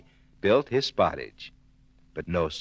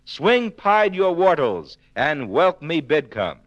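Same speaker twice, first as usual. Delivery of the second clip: wolf pleading; 6 semitones higher, 3 dB louder than usual. Acted.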